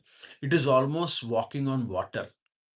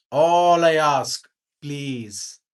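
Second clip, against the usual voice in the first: slow, drawn-out, louder plea; father gently asks mother to limit her charity, a slow, louder plea; gentle plea; 8 dB louder, much slower than usual. Retold or imitated. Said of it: "See how gently he spoke".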